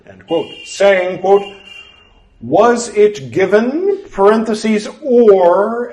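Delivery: measured, deliberate scripture reading; formal reading aloud. Acted. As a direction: read it like an old formal text. Reads scripture text aloud.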